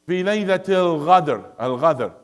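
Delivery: Sudanese qaf as "gh" in "الغدر"; Sudanese accent. Shown as a demonstration. Teacher imitates a Sudanese reciter, Sudanese accent. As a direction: recite it Sudanese, Q turned into ghain. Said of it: "Sudanese will recite it".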